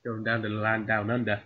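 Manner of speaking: put-on lightly done Australian accent; Aussie accent. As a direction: put on a low-key Aussie voice. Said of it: "an Aussie accent".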